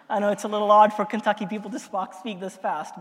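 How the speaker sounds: fast, rushed delivery; speaking fast. Real, not acted. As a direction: rattle the words off quickly. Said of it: "I'm gonna speak really fast today".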